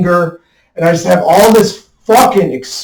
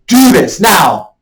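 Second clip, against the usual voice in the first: mock barked order, higher and louder; inner command; 4 semitones higher, 4 dB louder, slower than usual. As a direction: voice the inner push, slowly.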